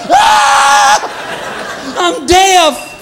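high shouting passerby; mock shout. Passerby at a barkless dog, high mock shout. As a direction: yell like you've gone deaf.

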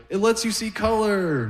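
high, lightly voiced girl; a hint of an eager granddaughter. Granddaughter explaining the glasses, lightly voiced high girl. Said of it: "She's like".

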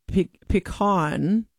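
pecan said "pih-KAHN", slowly; hesitant, drawn-out "pih-KAHN"; own pronunciation. Shown as a demonstration. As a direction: open "ah" in the stressed end of pecan. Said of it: "I say pecan".

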